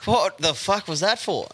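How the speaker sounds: high, laughing "oi, fuck"; laughing retold protest. Retelling being punched in bed, laughing and high. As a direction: laugh through the startled question. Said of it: "And I'm going".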